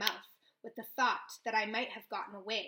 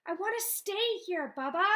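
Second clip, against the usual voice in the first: higher and a little louder, tearful; sobbing plea; 8 semitones higher, 5 dB louder than usual. A narrator's reading. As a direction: plead through sobs. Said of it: "I sob".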